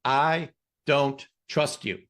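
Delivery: slow, deliberate I don't trust you; the subconscious flatly refusing to trust; slow distrust. Pretend. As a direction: drag each word out coldly. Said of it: "it says".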